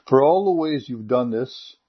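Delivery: earnest prayer in short phrases with pauses; spoken prayer. Real, not acted. Preacher prays to God for a believing heart, earnest prayer. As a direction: pray it aloud, pleading gently for help.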